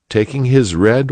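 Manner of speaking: plain reading voice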